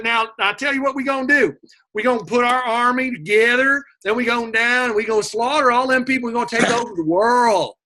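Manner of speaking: high, fast thuggish Macedonian accent; a rough Macedonian accent, pushed high. Shown as a demonstration. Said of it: "a Macedonian accent to us would sound kinda like this".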